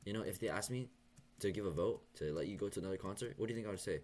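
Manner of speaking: hammed-up playful scolding; mock teasing dentist. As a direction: play the dentist teasing him with a question. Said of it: "she went".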